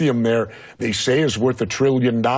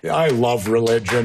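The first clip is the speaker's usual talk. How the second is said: sarcastic; 2 semitones lower than usual. Real, not acted. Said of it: "and I say that sarcastically".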